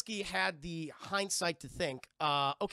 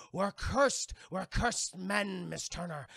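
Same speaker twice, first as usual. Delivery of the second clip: Barbossa impression; much slower than usual. Barbossa monologue building.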